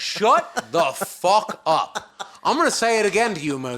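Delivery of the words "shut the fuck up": drawn out, word by word; slow disbelief. Real, not acted. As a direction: spell out each word in disgust. Disgusted at friend's explanation.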